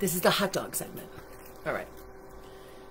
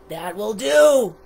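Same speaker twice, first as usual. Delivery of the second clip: monster; 6 dB louder, slower than usual. A narrator's reading. Monster grudgingly accepts food.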